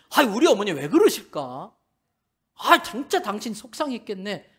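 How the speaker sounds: sympathetic husband. Retold or imitated.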